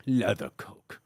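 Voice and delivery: low, soft mock London tough guy; quiet, gruff British accent; Jason Statham. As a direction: drop into a deep British hard-man voice. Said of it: "like, Jason Statham saying".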